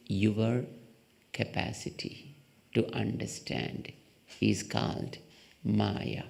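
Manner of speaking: slow, low, hushed voice of the teacher; solemn quote. Retold or imitated. Speaker quoting Ramanuja to the audience, slow low hushed solemnity. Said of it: "our great Acharya Ramanuja said".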